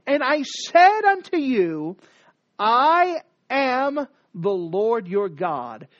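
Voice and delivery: slow, solemn proclamation; voice of God. Acted. Scripture's Lord declaring himself to Israel, slow and solemn. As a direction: declare it slowly with weight. Reading God's words in scripture.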